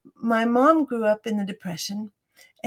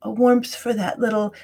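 guided meditation. Shown as a demonstration. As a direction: guide the listener gently into the breath, fading to a whisper. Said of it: "Why don't you teach me?".

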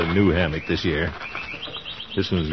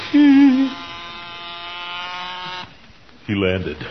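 squeaky nervous; 11 semitones higher than usual. Acted. Bee crawling on his nose.

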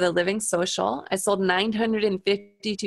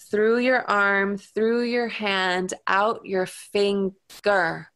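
hypnotic countdown. Retold or imitated.

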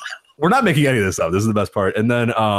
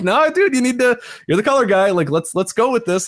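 exasperated plea; 6 semitones higher than usual. Retold or imitated. Voicing exasperated partner.

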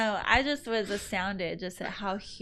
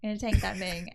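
put-on country accent. Repeating the tourist's catfish question to friends, country accent. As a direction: do the country tourist, easing off toward the end. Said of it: "It was like".

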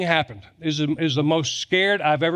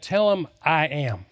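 voice of God. Retold or imitated. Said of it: "And God said".

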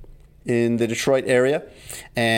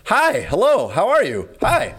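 much higher, louder, over-the-top cheery greeting; exaggerated friendly hi; 10 semitones higher, 3 dB louder, slower than usual. The speaker gushing hello at the silent barista, high and over the top. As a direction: wave and gush hello at the barista. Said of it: "very exaggeratedly, like, waving to him".

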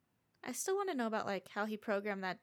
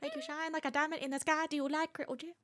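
comic character voice; 6 semitones higher, faster than usual. Pretend. Continuing the character voice.

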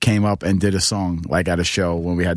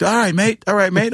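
put-on Scottish accent; 11 semitones higher than usual. Scot voiced agreeing.

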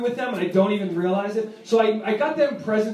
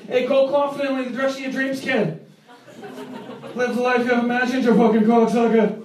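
mock Boston tough guy. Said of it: "He's like".

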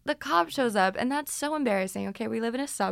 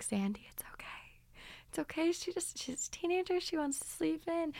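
soft whispery soothing neighbor; calming neighbor; 7 semitones higher, 8 dB quieter than usual. Retold or imitated. Neighbor calming the mom down, soft and hushed. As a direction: hush her gently. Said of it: "calm her down".

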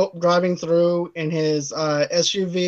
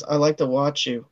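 low, soft line to a wife; mock sweet talk; 5 semitones lower, 6 dB quieter than usual. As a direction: drop the voice and murmur it to her. Acted come-on to wife.

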